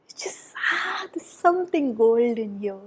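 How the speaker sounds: awed breathy whisper. Real, not acted. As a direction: whisper in wonder. Awed hush over cards.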